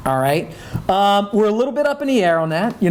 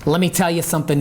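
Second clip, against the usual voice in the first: put-on 1 Corey Johnson yat accent; faster than usual. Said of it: "in his great yat ass accent".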